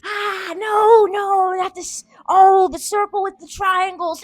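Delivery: high, loud panicked wail; mock panic. Streamer spots the circle with triangles, mock-panicked wail. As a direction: cry out in hammed-up dread.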